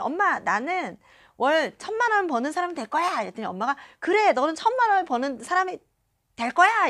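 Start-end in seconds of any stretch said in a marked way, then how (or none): 0.0-3.2 higher-pitched, hopeful declaration; declaring to mother. Retold or imitated. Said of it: "엄마랑 저랑 막 차를 타고". 4.0-6.9 high, loud imitation of a cheering mother; enthusiastic agreement. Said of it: "엄마가 맞장구를 쳐주셨거든요".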